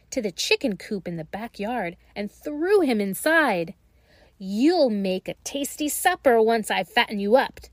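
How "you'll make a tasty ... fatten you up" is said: crowing. Acted. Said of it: "she crowed".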